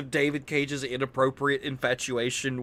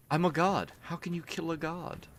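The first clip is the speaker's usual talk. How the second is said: Dagoth Ur voice; 5 semitones higher, 6 dB quieter than usual. Retold or imitated. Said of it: "replacing Mister House's dialogue with Dagoth Ur".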